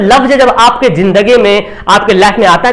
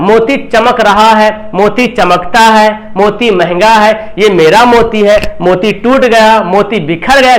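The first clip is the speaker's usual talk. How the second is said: slow example sentences; slower than usual. Shown as a demonstration. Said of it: "अक्सर बच्चा गलती करता है".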